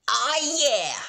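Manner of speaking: high, loud cheer. Acted. Rainbow Dash celebrating no school, high and loud cheer. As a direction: whoop with delight. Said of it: "Rainbow cheered".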